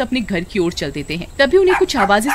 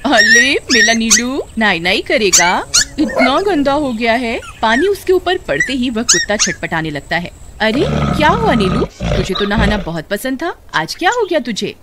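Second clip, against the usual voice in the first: Suman, cooing to dog; 2 semitones higher than usual. Acted. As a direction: coax the dog into the bath.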